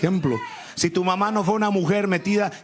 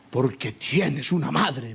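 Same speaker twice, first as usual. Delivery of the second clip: mother's answer; 5 semitones lower, slower than usual. Retold or imitated. Mother explains in story.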